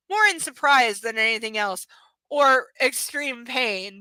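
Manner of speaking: loud, scoffing read; sarcastic. Shown as a demonstration. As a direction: sneer at the line. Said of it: "rereads the line".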